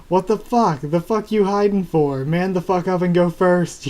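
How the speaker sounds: hammed-up yell telling him to man up; mock yell. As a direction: bark it at him like a bully. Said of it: "yells Flake".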